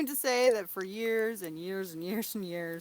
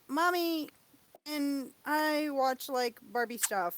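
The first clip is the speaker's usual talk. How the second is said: put-on girly little girl; 5 semitones higher than usual. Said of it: "the little girl that was like".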